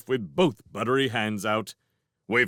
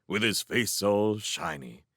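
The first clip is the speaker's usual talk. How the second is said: usual speaking voice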